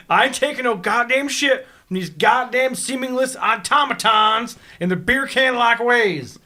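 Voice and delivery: put-on slow, drawn-out upstate New York accent, lightly done; a hint of a Minnesota-sounding upstate New York accent, taken slowly; Weed Sport New York accent. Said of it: "that was my best Weed Sport New York, uh, accent".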